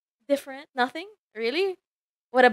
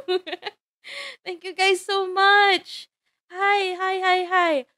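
high, bubbly character greeting; excited Marjorie voice; 5 semitones higher than usual. Acted. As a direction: squeal hello to returning fans. VTuber greeting as excited Marjorie persona.

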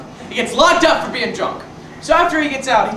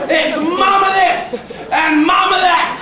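mocking Irish son; 8 semitones higher, 4 dB louder, slower than usual.

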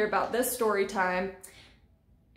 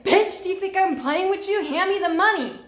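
louder, higher aggressive snapping of a street dealer; retold threat; 9 semitones higher, 7 dB louder than usual. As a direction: imitate the dealer threatening her. Dealer threatens her in car.

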